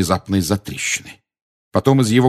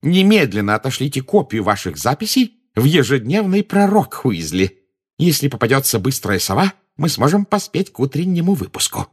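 high, excited orders; jubilant; 6 semitones higher, 4 dB louder than usual. A narrator's reading. Minister sends news to the paper, jubilant. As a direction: rap out orders with raised, triumphant pitch. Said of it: "В голосе Фаджа звучало ликование".

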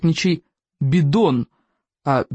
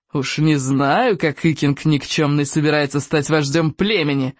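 sneering; 2 semitones lower than usual. Acted. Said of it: "оскалился Сморкало".

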